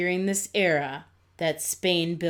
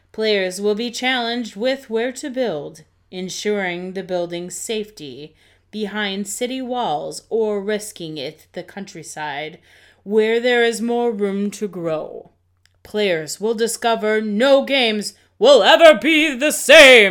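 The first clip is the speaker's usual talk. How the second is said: theatrical, very loud, drawn-out dramatic narration; 3 semitones higher, 11 dB louder than usual. Reading a game's description aloud to the others: dramatic reading. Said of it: "during that dramatic reading".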